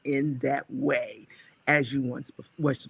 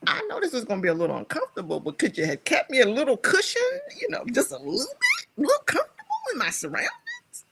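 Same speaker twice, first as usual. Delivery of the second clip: pleading; 10 semitones higher, faster than usual. Retold or imitated. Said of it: "I said".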